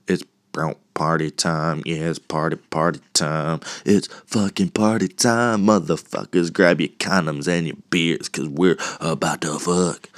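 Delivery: lightly put-on party hype-man voice. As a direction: playfully hype up the crowd for a party.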